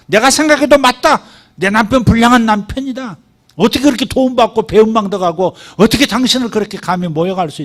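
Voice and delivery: high, earnest pleading agreement; Abigail's acknowledgment. Shown as a demonstration. Pastor voices Abigail validating David's anger, high and earnest. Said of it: "이렇게 얘기해 주라".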